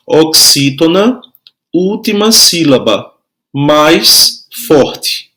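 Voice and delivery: measured repeat for note-takers; slow, spaced-out teacher's dictation. Shown as a demonstration. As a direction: dictate it piece by piece with pauses. Repeating dictation for pupils writing.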